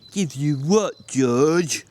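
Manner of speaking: slow, simple, pleading big man; childlike Lennie voice. Acted. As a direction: ask like a slow-witted child. Lennie plays dumb.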